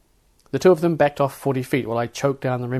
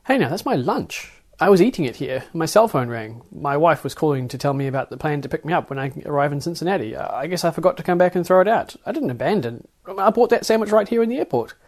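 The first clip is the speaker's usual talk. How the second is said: a lightly voiced flustered traveller, a bit higher; defensive traveller; 5 semitones higher, 5 dB louder than usual. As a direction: narrator defends his abandoned lunch to security, lightly flustered. Narrator pleads his own case.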